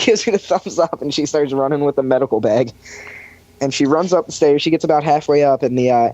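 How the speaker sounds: ordinary delivery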